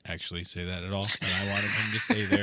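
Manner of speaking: super calm. Retold or imitated. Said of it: "then he gets all super calm".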